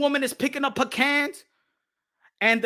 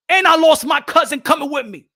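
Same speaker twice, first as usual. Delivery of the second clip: louder, rising outrage at the loss; loud indignant retort; 6 dB louder than usual. Retold or imitated. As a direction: throw it at them like an accusation. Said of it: "they're gonna tell you in broken English".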